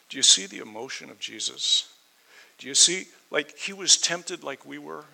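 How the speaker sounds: high, loud pleading question to the congregation; impassioned appeal. Real, not acted. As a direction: reach out and make them feel it.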